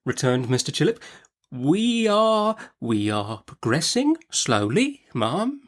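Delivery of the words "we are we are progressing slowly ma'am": higher, meek little voice; a nervous doctor placating; timid doctor. A narrator's reading. Timid Mister Chillip answers the fierce aunt, meekly.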